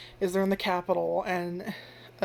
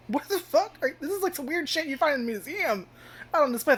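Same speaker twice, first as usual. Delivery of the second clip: much higher baffled disbelief; incredulous protagonist; 8 semitones higher than usual. Retold or imitated. Protagonist baffled by the book, high incredulous scoff. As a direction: scoff at it like a museum oddity.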